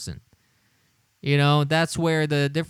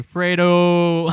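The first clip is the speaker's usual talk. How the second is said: mocking laugh; 2 semitones higher, 6 dB louder than usual. Real, not acted. Mocking the name through laughter.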